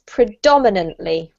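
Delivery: "predominantly" with the stress on "dom". Shown as a demonstration. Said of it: "We keep the emphasis on the dom".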